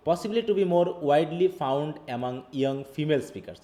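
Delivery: reads each English word out slowly; careful, slow read-aloud; slow textbook reading. Acted. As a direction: dictate it word by word to the class.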